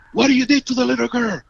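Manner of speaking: quick, high accusing question; angry cop. Retold or imitated. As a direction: bark it out like an accusing policeman. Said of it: "he say".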